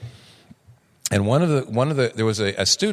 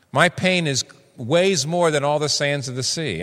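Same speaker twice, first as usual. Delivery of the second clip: anguished lament; 5 semitones higher than usual. Acted. Preacher voicing Job's lament.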